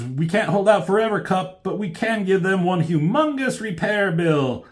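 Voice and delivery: high, energetic acted quip; hammed-up action-hero bravado; heroic rallying call. Acting out hero's battle rallying.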